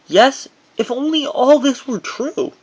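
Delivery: sarcastic. Real, not acted. Teen memoir author undercutting his happy story, dry sarcasm. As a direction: drag it out, mocking his own fairy tale. Ironic reveal after rosy lie.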